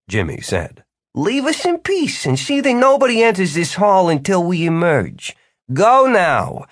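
high, grand, commanding host; solemn command. A narrator's reading. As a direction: order the servant with pomp. Jimmy's solemn commanding order.

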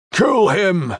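high, drawn-out yell; shouted. A narrator's reading. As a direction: yell it from an angry mob. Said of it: "someone shouted".

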